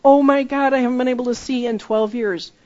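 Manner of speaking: formerly blind stranger shouting in amazement; amazed healed blind person. Retold or imitated. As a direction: burst out like sight just came back. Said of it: "they start to say".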